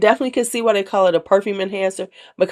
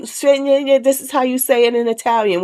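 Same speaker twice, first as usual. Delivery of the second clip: mock pronunciation corrector; 6 semitones higher than usual. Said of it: "So it'd be like".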